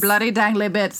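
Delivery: badly faked British accent; terrible British accent. Host plays along with co-host's request, terrible British accent. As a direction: ham up an amateur British accent. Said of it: "say that with a British accent".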